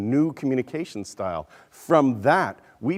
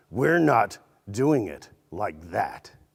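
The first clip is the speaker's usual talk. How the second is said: half-growled, gruff growling voice; 3 semitones lower than usual. The speaker retells a company president's remark to his executives, retelling a growl. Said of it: "sort of growling".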